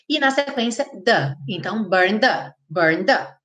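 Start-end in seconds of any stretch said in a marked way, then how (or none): 1.9-3.3 BURN THE joined in one sweep; linked D. Shown as a demonstration. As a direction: merge the D into "the". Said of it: "terminando em D".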